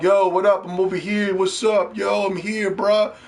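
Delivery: lightly mocked hype gamer bros; mocking players. Streamer mimics players standing around in NBA 2K, lightly mocking. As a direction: imitate slangy online players hanging around. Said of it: "That's how they talk. I don't talk like this".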